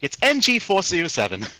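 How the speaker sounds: high-pitched call across open ground; acted shout. Pilot walks back to tell the man the frequency, acted shout. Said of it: "just, like, shouting".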